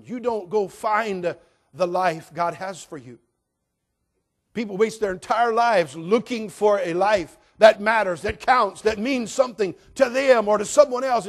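loud, high, driving sermon voice; full-force preaching. Acted. Pastor exhorting the congregation, loud fervent preaching. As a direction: preach it out with fire.

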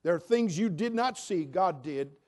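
fervent preaching. Real, not acted. Preaching at full force.

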